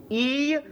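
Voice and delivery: "I" held long and high. Shown as a demonstration. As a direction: stretch the "I" out, clearly. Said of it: "mais un i long". (un "I" long, tenu et aigu)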